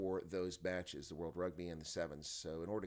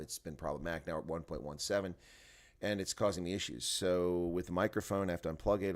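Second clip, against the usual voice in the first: ordinary talk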